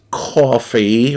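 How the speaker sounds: "coffee" with a rounded AW vowel; East Coast pronunciation. Shown as a demonstration. Streamer showing viewers how East Coasters say it, East Coast "coffee". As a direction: say "coffee" as "CAW-fee", drawn out. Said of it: "How do non-East Coasters say coffee?".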